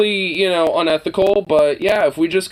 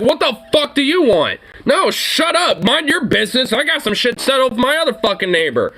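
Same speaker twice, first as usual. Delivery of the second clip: mock angry rant; 5 semitones higher than usual. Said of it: "I'd be like".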